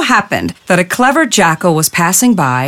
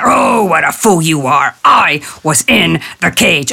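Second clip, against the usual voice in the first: scornful tiger. Acted. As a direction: correct the fool with contempt. Tiger correcting jackal.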